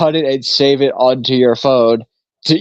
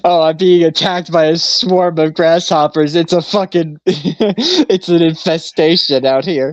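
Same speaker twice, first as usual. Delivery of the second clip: mock drama queen; 4 semitones higher than usual. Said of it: "I'm a drama queen".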